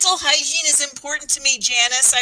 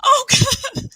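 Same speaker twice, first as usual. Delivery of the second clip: disgusted gasp; 10 semitones higher than usual. Acted. Disgusted reaction to being licked.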